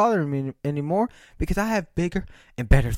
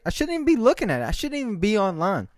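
quick, higher rush of exasperation; exasperated outburst; 4 semitones higher, faster than usual. Real, not acted. Fed up with online show-offs, a fast exasperated rush. Ranting about online posting.

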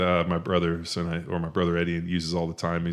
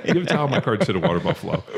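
laughing Fletch quote; 3 semitones higher, 4 dB louder, faster than usual. Retold or imitated.

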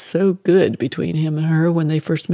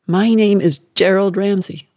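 louder, hammered words; mother hammering the name at her son, louder; angry insistence; 3 semitones higher, 5 dB louder than usual. Acted. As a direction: force each word on him. Mother demanding the repetition.

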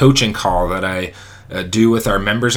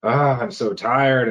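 mock weary moan; 3 semitones higher, slower than usual. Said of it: "Even in the morning when you wake up".

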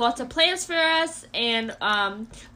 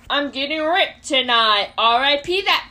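slow, louder take; 6 dB louder than usual. Pretend. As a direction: drag it out, louder. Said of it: "what do you want me to do this one".

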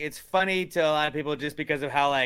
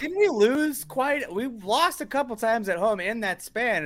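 high-pitched mock objection; 9 semitones higher, slower than usual. Acted objection to a cheery stat.

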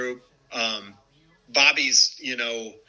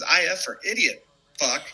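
mock yell; 5 semitones higher than usual. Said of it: "he just screaming and yelling".

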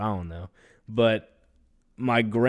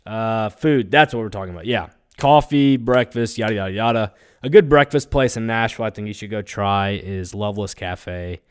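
louder and more upbeat; host livening up a dull podcast, louder and upbeat; picking up energy; 7 dB louder than usual. Real, not acted. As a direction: push energy into the read to liven it up. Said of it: "Sorry, I gotta pick it up".

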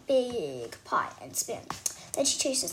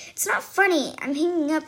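indignant, louder and higher; annoyed; 3 semitones higher, 7 dB louder than usual. A narrator's reading. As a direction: snap it back, offended. Annoyed at laughing farmer.

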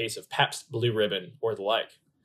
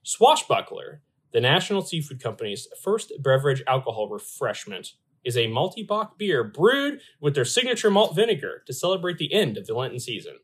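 reading press release. Retold or imitated. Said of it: "this is a quote from Long John Silver's".

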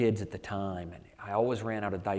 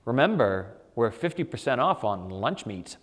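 mock store PA announcement, louder; loudspeaker announcement; 4 dB louder than usual. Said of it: "the loudspeaker says".

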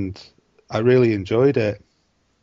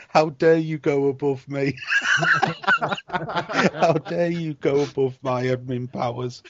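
higher, hammed-up indignant voice with laughter; mock outrage; 5 semitones higher, slower than usual. Teasing his girlfriend about admin powers, mock outrage. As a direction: play at being offended, laughing through it. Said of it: "I said to her".

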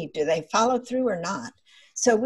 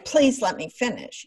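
demanding; 3 semitones higher than usual. Shown as a demonstration. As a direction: insist on "Please let me finish" with impatience. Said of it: "we didn't say".

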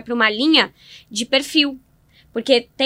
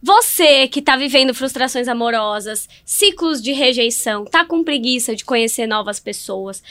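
ad read. Pretend. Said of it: "Repete o pitch aí".

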